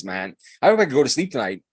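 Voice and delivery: normal talking voice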